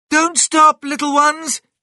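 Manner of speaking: very high, urgent shouting cry. Mrs. fox calls to the small foxes as diggers tear at their tree, shouting. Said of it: "Shouted Mrs".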